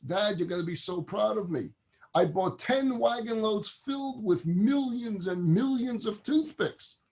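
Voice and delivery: high-pitched boasting to Dad; proud, excited son. Acted. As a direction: announce it with thrilled pride. Son proudly reports his purchase.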